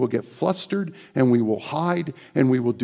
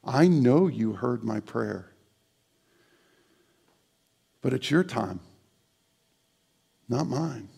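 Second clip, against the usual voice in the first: prayer voice. Shown as a demonstration. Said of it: "would you pray this prayer".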